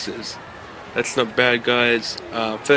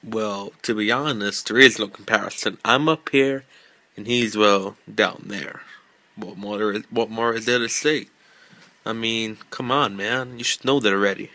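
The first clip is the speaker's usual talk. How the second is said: fake American accent. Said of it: "sorry about my really, really bad American accent".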